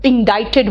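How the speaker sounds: इंडाइटेड said in-DIE-ted, c silent; repeating the phone's pronunciation to the class; correct pronunciation. Shown as a demonstration. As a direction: echo इंडाइटेड like the phone did. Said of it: "ये सी silent है".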